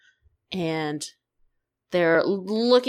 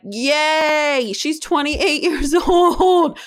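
higher, slow, laughing delight; gleeful excitement; 7 semitones higher, 5 dB louder, much slower than usual. Retold or imitated. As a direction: stretch it out, giggling with glee. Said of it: "I got very excited".

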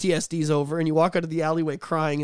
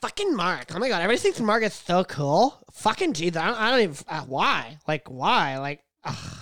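mock jealous coworker. Mocking jealous coworker Jessica.

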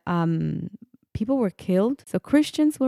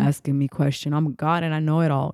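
lower, imitating a stern angry God; mock angry deity voice, lower; mock outraged God; 4 semitones lower than usual. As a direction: play a wrathful God scolding a question. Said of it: "He's gonna be".

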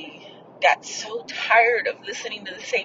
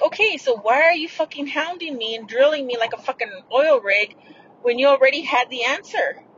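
retold frustration; 4 semitones higher than usual. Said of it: "And I was getting frustrated".

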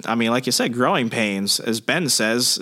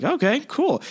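put-on higher, eager teen voice; excited teen Harry; 12 semitones higher than usual. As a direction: play it like a thrilled kid trying to stay cool. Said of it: "Harry's just like".

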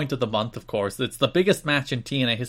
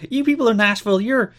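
mock wrestler insult; 9 semitones higher, 4 dB louder than usual. Wrestler insulting the people of Nashville, mock-grand and halting. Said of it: "he starts talking about Nashville".

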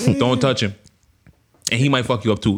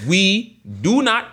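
put-on higher, deliberate proper English accent; 5 semitones higher than usual. Host giving allergy disclaimer, proper English voice. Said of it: "in my proper English voice".

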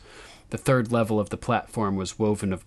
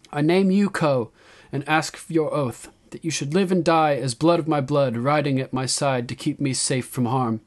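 high, loud address to her people; raised, declaiming queen; young queen's proclamation; 5 semitones higher, 5 dB louder than usual. A narrator's reading. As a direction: proclaim it to a whole crowd.

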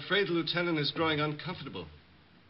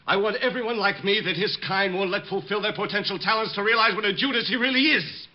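rising, louder and higher into a tirade; bitter rant; 5 semitones higher, 4 dB louder than usual. Acted. Bomber ranting about the mayor, growing loud and bitter. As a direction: build your grievance into a bitter tirade.

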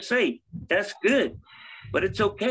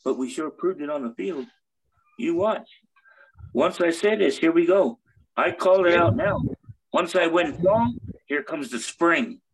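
heroic rallying shout. Acted. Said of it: "wrestling promo".

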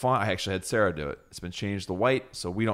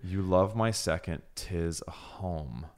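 slow dictation; 2 semitones lower, 3 dB quieter, slower than usual. Shown as a demonstration. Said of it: "I will read it again".

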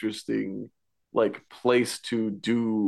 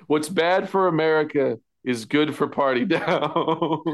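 laughing; 4 semitones higher than usual. Real, not acted. Co-host joking about the shoddy picnic decorations, laughing. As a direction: joke dissolving into laughter.

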